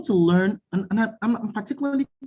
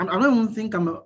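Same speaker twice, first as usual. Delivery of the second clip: ordinary talk, nothing marked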